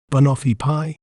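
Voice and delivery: "banoffee pie" said clearly, stress on "noff"; careful teacher's "banoffee pie", each sound clear; slow clear dictionary pronunciation. Shown as a demonstration. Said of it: "We may pronounce it as".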